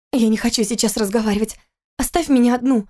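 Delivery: a pregnant wife begging to be left alone; upset wife. Acted. Wife refuses through the door. (расстроенная жена, голос выше)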